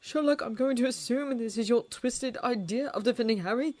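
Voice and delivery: shaken. A narrator's reading. Watson upset, shaking.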